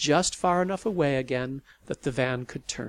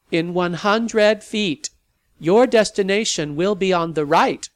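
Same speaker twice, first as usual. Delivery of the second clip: GPS voice; 6 semitones higher, 9 dB louder than usual. Acted. Sat nav announcing the turn, robotic. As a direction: read it like a machine. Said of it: "GPS again".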